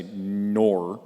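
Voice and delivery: "nor" drawn out loud, standing in for Australian "no". Shown as a demonstration. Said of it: "someone was saying".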